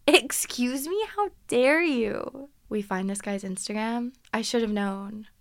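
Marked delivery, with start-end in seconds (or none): 0.1-2.5 slow, indignant disbelief; offended, drawn-out retort; mock outrage. Real, not acted. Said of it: "indignant reaction".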